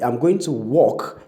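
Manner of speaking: walk said slowly with aw vowel; slow model sentence. Shown as a demonstration. Teacher models a sentence for walk. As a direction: spell out walk carefully. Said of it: "is actually W A L K".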